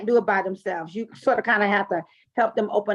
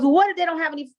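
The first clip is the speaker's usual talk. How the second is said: mock mortician; 6 semitones higher, 4 dB louder, faster than usual. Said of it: "He goes".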